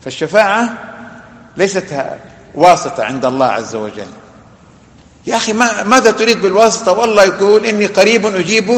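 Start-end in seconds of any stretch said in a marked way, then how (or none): 5.3-8.7 raised, higher-pitched challenge; insistent, pressing appeal; exasperated remonstrance. Acted. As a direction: plead with a brother who won't see it. Remonstrates with an imagined believer in intermediaries.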